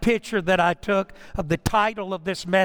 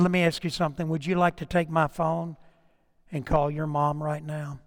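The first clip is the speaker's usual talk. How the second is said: low, softened retold offer; gentle offer; 5 semitones lower, 4 dB quieter than usual. Pastor offers runaway girl his phone, gently. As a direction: offer it quietly, voice kept low.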